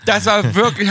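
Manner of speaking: gushing, barely containing it; giddy fan excitement; excited. Real, not acted. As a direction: voice lifting with delight. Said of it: "habe ich kurz geschrien".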